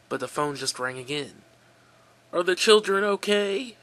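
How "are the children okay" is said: higher, louder hoarse ask. Acted. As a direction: rasp the question out. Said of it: "his hoarse voice asked".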